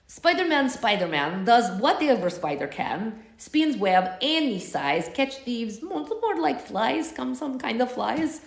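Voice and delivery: stumbling through it in a Russian accent; hammed-up Russian accent singing. Shown as a demonstration. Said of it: "if Ritu knew the Spider-Man theme song, it'd probably go something like this".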